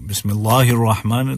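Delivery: "बिस्मिल्लाहिर" with heavy l; thick lam. Shown as a demonstration. Teacher warning of the error, "बिस्मिल्लाहिर" thickened. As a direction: read "बिस्मिल्लाहिर" with a dark back aa. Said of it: "गलत हो जाएगा".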